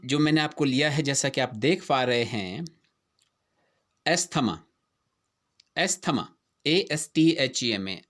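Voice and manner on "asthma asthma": asthma said est-thma with th sounded; common mispronunciation. Shown as a demonstration. Teacher showing students the usual mistake, asthma with th. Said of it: "कैसे pronounce कर रहे हैं".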